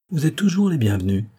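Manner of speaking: put-on an old maid's gracious greeting; hospitable good grace. A narrator's reading. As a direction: welcome guests with open courtesy. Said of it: "dit la vieille fille avec sa bonne grâce hospitalière".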